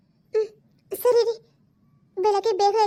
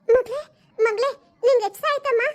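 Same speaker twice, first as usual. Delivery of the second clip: calling her daughter through tears; a mother's voice near crying; choked-up call to a waking child; tearful mother. Acted. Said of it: "ಅಮ್ಮ, ನೀನ್ ಯಾಕೆ ಅಳ್ತಿದ್ಯಾ?".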